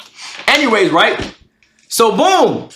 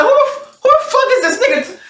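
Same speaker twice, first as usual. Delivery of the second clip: very high-pitched indignant disbelief; getting mad; faster than usual. Retold or imitated. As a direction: retell it fast and high, incredulous. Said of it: "I started getting mad".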